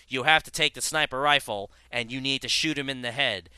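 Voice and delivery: measured, unemotive officer voice, imitated. Female officer training you with the sniper rifle, mock unemotive delivery. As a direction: drone like an unemotive firearms instructor. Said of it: "she talked like this the entire time".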